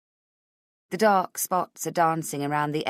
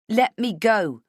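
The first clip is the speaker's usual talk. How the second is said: louder, tense demand; firm demand; 4 semitones higher, 5 dB louder, slower than usual. Acted. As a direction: insist he let you go. Heroine demands release.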